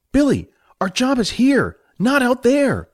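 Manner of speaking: high firm voice for Jack; stern mentor. Acted. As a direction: lay down the rule. Jack refuses firmly.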